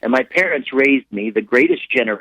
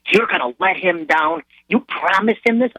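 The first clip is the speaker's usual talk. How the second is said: acted wife's higher-pitched challenge; reproachful disbelief; 7 semitones higher than usual. Wife to husband about promising their son, reproachful disbelief. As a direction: question him in rising reproach.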